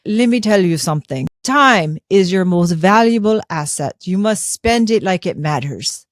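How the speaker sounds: put-on mentor's advice in a mild French accent. Recalling her French mentor's advice over lunch, in a light French accent. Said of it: "he has this French accent, he talks like this".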